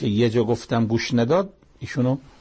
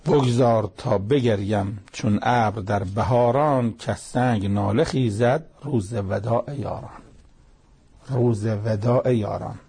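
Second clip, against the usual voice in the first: slow, measured verse reading; unhurried poetic recital; poem recitation; slower than usual. Acted. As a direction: recite the couplet slowly, drawing out the words.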